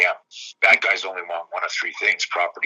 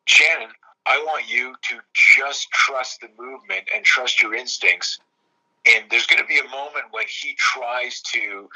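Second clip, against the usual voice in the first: slow, deliberate instruction with pauses; measured coaching; 3 semitones higher, slower than usual. Retold or imitated. Coach to student before the drill, measured coaching. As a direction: coach her through it slowly, weighting each phrase.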